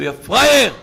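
lightly shouted taunt from a passer-by; retold street shout. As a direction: call out the jeer. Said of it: "צועק לך".

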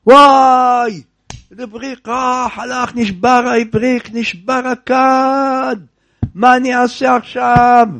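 hammed-up cry of loss; mock lament. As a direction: ham up the despair, drawing out נשבר. Rabbi laments broken jug.

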